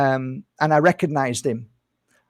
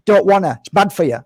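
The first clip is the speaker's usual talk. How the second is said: mock excuse; 4 semitones higher, 5 dB louder than usual. Mimicking people refusing to fast.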